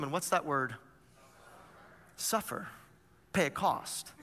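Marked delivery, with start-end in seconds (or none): 2.2-4.1 hushed whisper. Acted. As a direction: whisper "Suffer" softly, voiceless. Pastor stresses the key word.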